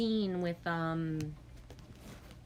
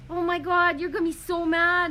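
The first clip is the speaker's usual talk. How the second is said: high, loud anxious wail; mock panic; 10 semitones higher, 8 dB louder than usual. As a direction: plead in a panic. Panics after shaving mistake.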